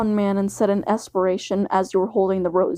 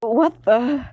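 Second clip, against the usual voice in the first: nervous surprise; 3 semitones higher than usual. Acted. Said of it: "in a nervous and surprised voice".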